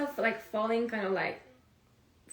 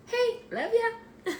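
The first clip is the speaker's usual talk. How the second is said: laughing; 12 semitones higher, much slower than usual. Real, not acted. Flirty call to twin flame.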